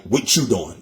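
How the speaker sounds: Philly slang, words run together as "What you doing"; a light, casual Philly impression; Philly accent. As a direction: mimic how Philly folks squash "What you doing". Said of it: "they be like".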